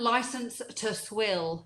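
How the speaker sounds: slow, soft murmur; leaning in to whisper. Real, not acted. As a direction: lean in and say it softly. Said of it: "I'm such a whisper".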